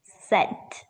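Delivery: Sent isolated as the stressed syllable; single crisp demo of Sent, set apart by pauses; stressed syllable alone. Shown as a demonstration. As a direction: give Sent alone as the strong part. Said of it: "more stressed".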